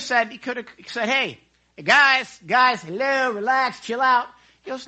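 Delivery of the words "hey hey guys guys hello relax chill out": raised, hailing voice; calling out. Pretend. Imagined Jesus calls out to calm the frightened disciples, calling out. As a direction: call to the guys, a bit higher and louder. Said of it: "He could have called out immediately".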